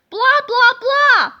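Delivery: loud, high mocking blah blah blah; hammed-up grumpy principal ranting; mean principal blah.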